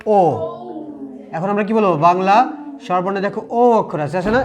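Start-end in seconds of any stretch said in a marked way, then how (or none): 0.1-0.2 ও as one pure Bengali vowel; old wrong O. Shown as a demonstration. Teacher recalls what we used to say, pure vowel ও. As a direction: say ও without any glide. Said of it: "এইটাকে আমরা কি বলতাম?".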